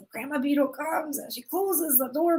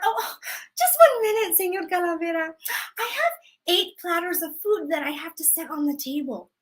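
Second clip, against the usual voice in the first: grandma stalling; 3 semitones higher than usual. Acted. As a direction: sweetly beg for one more minute. Grandma stalling Death again.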